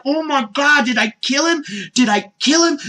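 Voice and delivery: high, frantic mock panic; Bulma, panicked. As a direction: yelp it as if terrified of what you did. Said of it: "Bulma is terrified".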